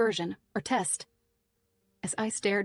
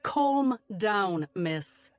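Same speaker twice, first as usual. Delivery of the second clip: shouting back; much slower than usual. A narrator's reading. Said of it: "he shouted back".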